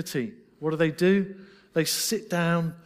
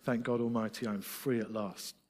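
solemn quoted spiritual; 4 semitones lower than usual. Retold or imitated. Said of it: "they were singing".

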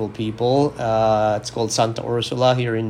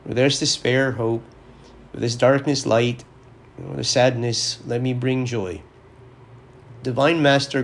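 prayer. Acted. Priest opening his podcast with a prayer, reverent and measured. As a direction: pray it reverently, line by line.

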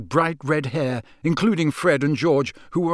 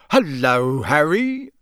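cheery lilting greeting; bright; slower than usual. A narrator's reading. Wizard greets the boy, brightly. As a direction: greet with a rising lift. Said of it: "said Mister Weasley brightly".

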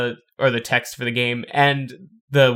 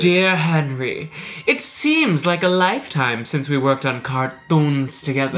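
letter reading; 2 semitones higher, slower than usual. Shown as a demonstration. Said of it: "You could read this".

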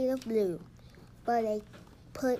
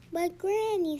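higher, louder pleading objection; child's protest; 6 semitones higher, 5 dB louder than usual. A narrator's reading. Patrick objects to lights out, protesting.

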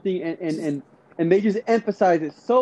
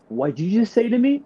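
indignant, pitched-up mock outburst; angry comeback; 3 semitones higher, 4 dB louder than usual. Rude worker snapping back at a customer, mock angry. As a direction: act out someone snapping back, offended. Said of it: "they'll just get angry".

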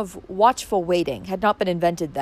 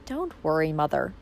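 lightly; 4 semitones lower, 5 dB quieter than usual. Acted. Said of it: "said Valancy lightly".

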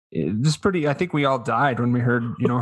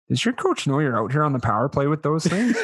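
1 quoting through laughter; 3 semitones higher than usual. Retold or imitated. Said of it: "he looks at me and he says".

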